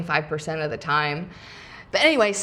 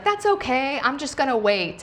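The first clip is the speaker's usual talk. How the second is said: higher-pitched, no-worries reassurance; easygoing quoted driver; 6 semitones higher than usual. Retold or imitated. Driver telling a late passenger he will wait, easygoing. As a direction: lightly imitate someone who is totally cool about it. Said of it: "he was so cool".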